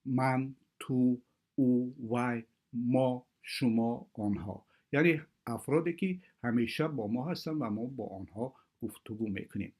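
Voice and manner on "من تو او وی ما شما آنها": each pronoun slow and apart; slow listing. Shown as a demonstration. Teacher slowly lists pronouns for Russian beginners. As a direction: spell out the pronouns one by one. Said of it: "مثل کلمه های".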